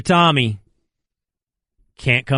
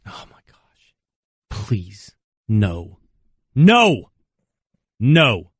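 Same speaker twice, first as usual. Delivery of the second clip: despair; 6 semitones lower, much slower than usual. Real, not acted. Despairs at Belichick leaving.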